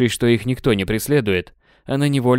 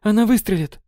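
panicked cry; 10 semitones higher than usual. Acted. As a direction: shout the warning in panic. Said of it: "в панике закричала Кейт". (панический крик, выше)

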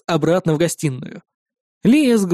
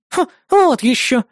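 higher, scoffing neighbour; indignant; 7 semitones higher, slower than usual. Acted. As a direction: scoff at him, outraged. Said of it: "возмущённо ответила Маруся".

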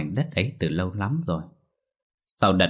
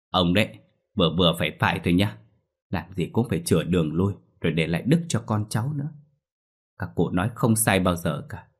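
sighing wife nagging. Acted. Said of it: "bà Linh thở dài nói".

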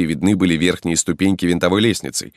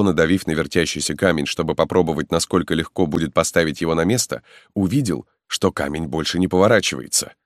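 ordinary delivery

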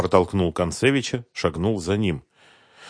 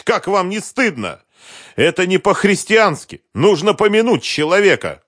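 high frantic pleading; frantic shouting hostage taker; 11 semitones higher, 5 dB louder than usual. Acted. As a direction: beg loudly, losing control. Drunk widower pleading hysterically.

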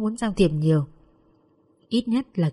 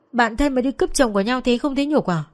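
higher, indignant reproach; angry accusation; 4 semitones higher than usual. Acted. Tú accuses her close friend of stealing her husband, indignant. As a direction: throw the betrayal in her face.

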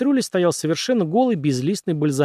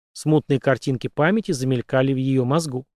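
ordinary delivery, nothing marked

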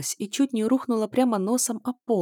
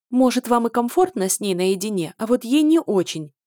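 louder, challenging jab; defiant retort; 4 semitones higher, 5 dB louder than usual. Acted. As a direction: throw the words out as a challenge. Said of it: "с вызовом бросила я". (с вызовом)

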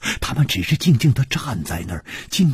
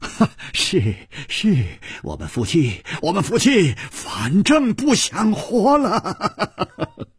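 大吼; roaring; 9 semitones higher, slower than usual. A narrator's reading. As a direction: roar it out, half mad. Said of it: "李玉涵大吼着说".

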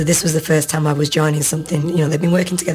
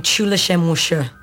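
badly faked Chinese accent. Shown as a demonstration. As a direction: mangle it like a bad Chinese accent. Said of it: "the worst Chinese accent you've ever heard".

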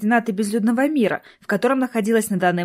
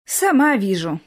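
heavy sigh. A narrator's reading. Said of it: "тяжело вздохнула Орти".

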